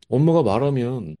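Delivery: usual speaking voice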